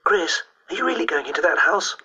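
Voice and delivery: high, breathless schoolgirl asking; breathless question. A narrator's reading. Classmate questioning Chris about the house, breathless. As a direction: ask it breathlessly, pitched well up. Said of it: "asked Dawn Sheehan breathlessly".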